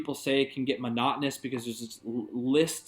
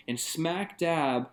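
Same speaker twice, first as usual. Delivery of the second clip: ordinary talk, nothing marked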